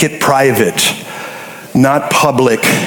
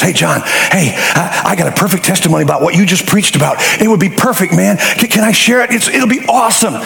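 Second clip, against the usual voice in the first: eager churchgoer; 3 semitones higher than usual. Retold or imitated. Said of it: "this lady from the second row sneaks over to me".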